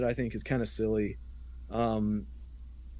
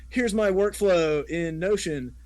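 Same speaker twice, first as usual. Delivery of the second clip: higher, drawn-out mock boast; lightly put-on show-off, slower and raised in pitch; mimicked Twitter guy; 6 semitones higher, slower than usual. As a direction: play the proud workflow guy, stretching it out. Voicing Twitter guys showing off.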